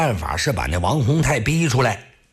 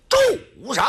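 thunderous stop. Acted. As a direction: stop them cold from the coffin. 棺材里一声喝. (棺材里一声断喝)

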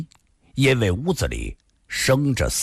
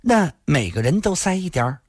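put-on higher, light girlish question; curious young woman; 5 semitones higher than usual. A narrator's reading. Granddaughter checking the plan, curious. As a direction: ask it in a raised voice.

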